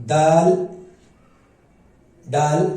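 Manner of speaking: दाल said slowly and clearly, long aa; careful letter name. Shown as a demonstration. Teacher modelling the letter दाल, careful. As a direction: spell out दाल for the learner. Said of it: "उसको तलफ़ुज़ है उसका".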